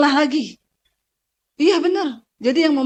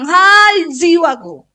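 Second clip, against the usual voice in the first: speaking to your soul; slower than usual. Shown as a demonstration.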